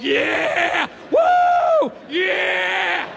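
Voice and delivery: high, drawn-out whoops; mock elated cheering. Man celebrating junk food, high ecstatic hollering. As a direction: cheer as if on a sugar rush. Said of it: "makes my sugar salt go like".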